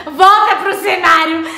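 chama alto e devagar; chamando alto. Real, not acted. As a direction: grita pra ela voltar pro lugar. Chamando a irmã de volta. (chamando alto)

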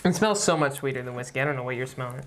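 glass held at lips; talking while sniffing drink; speaking into a glass. Real, not acted. Seen 2: Capped man likely speaking, holds glass to nose and mouth throughout.

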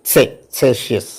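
Celsius with a sharp ts at the start; German Celsius. Shown as a demonstration. Teacher shows students Celsius with a ts sound. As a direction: say Celsius as tsel-zee-us. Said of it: "has the pronunciation as".

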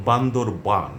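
বান্দরবান with a long open final আন; correct district name. Shown as a demonstration. Teacher models বান্দরবান for news readers, carefully. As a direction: say বান্দরবান clearly, ending in আন. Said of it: "আমরা বান্দরবন বলবো না".

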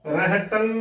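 ਰਹਿਤੰ ending in a nasal hum, no g; "reh-tan" model reading of ਰਹਿਤੰ; correct pronunciation. Shown as a demonstration. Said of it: "ਬੋਲਣਾ ਹੈ".

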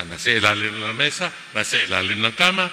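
teasing answer. Retold or imitated. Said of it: "kung pilosopo yung anak".

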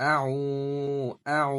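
আউ with the vowel held one beat long; আউ pulled long for one count; drawn out vowel. Shown as a demonstration. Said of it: "একাল টান আছে".

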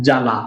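জালা in two distinct syllables, জা and লা; separate syllables. Shown as a demonstration. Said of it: "আলাদা আলাদা উচ্চারণ হয়ে গেল".

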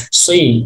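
"sui" with a heavy, rounded s gliding into i; emphatic s sound. Shown as a demonstration. Teacher showing how sad with kasrah reads, emphatic s pronunciation. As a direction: say "sui" with the thick Arabic sad. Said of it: "di kasroh ini".

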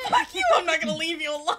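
loud, giggly rapid refusal; laughing defiance. Real, not acted. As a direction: shout defiance, then rush through laughing. Repeats defiance, laughing, at opponents.

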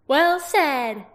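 high, loud approving shout; hearty warrior cheer. Acted. Angela cheering Roran mid-battle, high and loud. Character voice, raised.

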